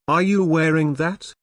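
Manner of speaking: mock clueless boyfriend asking; clueless guy. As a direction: play the tactless boyfriend.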